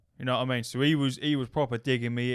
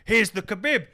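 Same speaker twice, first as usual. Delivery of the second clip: loud, high mock battle cry; retold screaming; 9 semitones higher, 7 dB louder than usual. Attacker running up to knock him out, imitated triumphant yell. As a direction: announce the finishing move with a shout. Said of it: "this geezer screaming at me".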